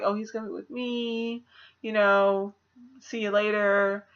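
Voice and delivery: soft, offhand villain voice, lightly done; breezy and dismissive, a hint of menace; sly kidnapper. Puppet villain brushing off Meg, softly smug. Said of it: "he's like".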